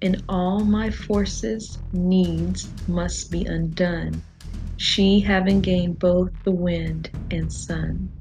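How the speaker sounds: slow, deliberate verse reading; poetry reading. Real, not acted. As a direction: recite unhurriedly, drawing out the line endings. Reads a poem aloud.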